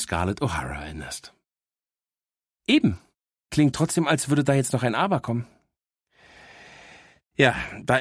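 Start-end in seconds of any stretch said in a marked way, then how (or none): 2.7-5.5 lightly voiced cheeky dog, a bit higher; a know-it-all little dog teasing her owner; cheeky talking dog. Dog Miss Happy speaks. (leicht gesprochene, vorlaute Hündin)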